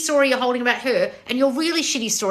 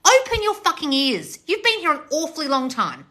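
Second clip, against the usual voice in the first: exasperated order, pitched up; losing it; 6 semitones higher than usual. Real, not acted. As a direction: hammer each word in exasperation. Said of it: "I'm losing my shit".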